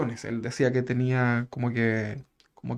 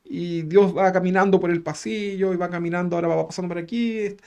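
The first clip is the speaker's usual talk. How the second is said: histrionic narration; 4 semitones higher than usual. Retold or imitated. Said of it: "histriónica".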